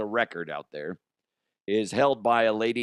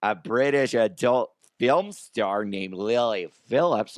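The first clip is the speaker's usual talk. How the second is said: put-on character voice; 5 dB louder than usual. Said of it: "should I just do it in this voice".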